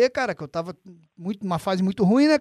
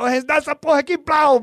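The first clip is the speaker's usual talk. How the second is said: mock greedy Rodrigo; 7 semitones higher, 5 dB louder than usual. Rodrigo grabs the bacon.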